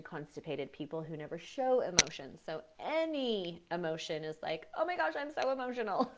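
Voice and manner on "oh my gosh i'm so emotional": mock dramatic wail. Mocking someone who feels over-emotional.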